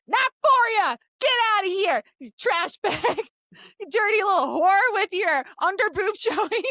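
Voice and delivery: mock hostile cowboy. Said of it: "he was saying".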